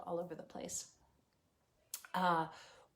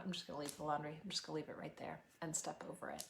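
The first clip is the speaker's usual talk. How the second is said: exhausted parent. Acted. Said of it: "depressed and overwhelmed".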